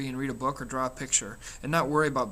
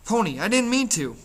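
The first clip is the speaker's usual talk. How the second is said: much higher, louder scream after him; 8 semitones higher, 5 dB louder than usual. Acted. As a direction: call desperately after the boy running off. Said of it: "Derry screamed".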